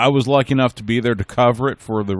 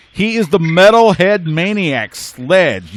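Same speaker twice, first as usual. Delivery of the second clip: big ring announcer intro, higher and louder; hype announcer; 6 semitones higher, 4 dB louder, slower than usual. Acted. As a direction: sell the name like a ring introduction. Host hypes guest's ring name.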